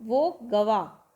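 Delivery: गवा said very slowly; slow Awadhi गवा for गया; Awadhi pronunciation. Shown as a demonstration. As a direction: stretch out वो गवा. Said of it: "यहाँ पर क्या है".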